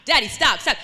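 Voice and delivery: mild mock pleading; pleading to stop. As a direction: beg him to stop, voice rising. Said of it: "we were all like".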